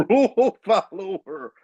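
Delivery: disbelief. Real, not acted. Mocks friend's caution.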